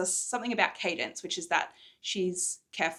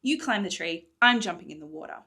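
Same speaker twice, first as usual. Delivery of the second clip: louder, bold on the surface; forced confidence; 6 dB louder than usual. Acted. Morrigan giving orders to Hawthorne, forced confidence. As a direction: sound braver than you feel. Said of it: "hoping she sounded more confident".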